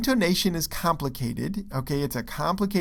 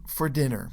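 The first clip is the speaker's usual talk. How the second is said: very quick "for", slower "dinner". Shown as a demonstration. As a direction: skip over "for" and linger on "dinner". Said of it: "and dinner is slower".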